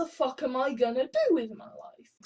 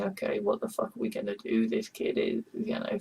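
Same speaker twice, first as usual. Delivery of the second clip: imitating Indiana; 6 semitones lower, 5 dB quieter than usual. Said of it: "and he's saying".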